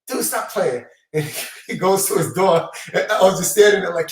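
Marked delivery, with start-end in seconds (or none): 0.1-0.9 incredulous. Retold or imitated. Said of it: "he's bugging".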